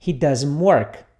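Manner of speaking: he doesn't work said again, a bit slowly; model for repeating. Shown as a demonstration. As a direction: model the sentence at a steady pace. (frase modelo para o aluno repetir)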